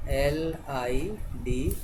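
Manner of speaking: slow spelling. Shown as a demonstration. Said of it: "लिड".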